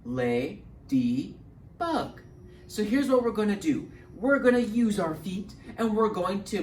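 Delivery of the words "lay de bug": "lay-de-bug" in separate, even beats; syllable by syllable. Shown as a demonstration. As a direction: break "lay-de-bug" into three syllables with gaps. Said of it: "we've got three syllables".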